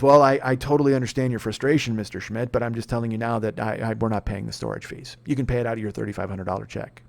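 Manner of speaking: customer-service drone brushing off an angry customer; bored insurance agent. Retold or imitated. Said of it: "ho-humming the shit out of me".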